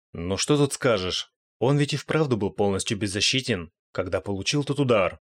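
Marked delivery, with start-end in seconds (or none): none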